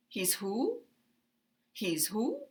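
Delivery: He's who rising on who; uptalk. Shown as a demonstration. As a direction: pitch up on who as a question. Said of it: "rising intonation".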